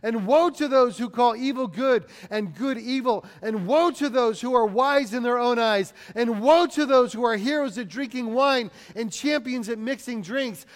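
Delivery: forceful preacher's rendering of a prophet; crying out. Acted. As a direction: drive each woe home like a warning. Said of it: "he cries out to them".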